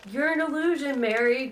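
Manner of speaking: high, loud, fearful accusation; frightened cry. Acted. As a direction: recoil from a ghost, voice up and loud. Chris hallucinating, backing away.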